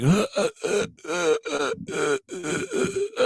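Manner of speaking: stuck for words, just stutter; speechless stammering. Retold or imitated. Newbie receiving gifts from two hundred followers, high panicked stammer. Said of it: "I couldn't talk".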